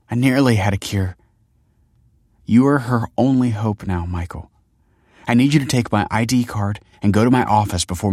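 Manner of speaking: lightly voiced wife, pleading urgency; urgent dying wife. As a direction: press a last request on him. Voices Kelsey's urgent last request.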